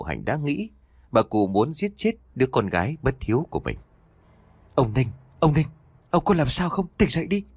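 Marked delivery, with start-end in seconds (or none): 4.7-7.4 calling out. A narrator's reading. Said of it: "Tiếng gọi của mụ Hạnh".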